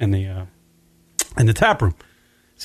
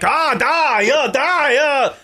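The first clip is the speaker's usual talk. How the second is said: high put-on mock Asian accent; 11 semitones higher, much slower than usual. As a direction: imitate the visiting golfers, high and foreign-sounding. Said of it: "they were just like".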